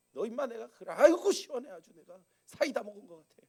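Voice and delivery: a loud, high relieved gloat; mock gloating. Imagined gloating God. (속 시원하다며 과장된 고소해함)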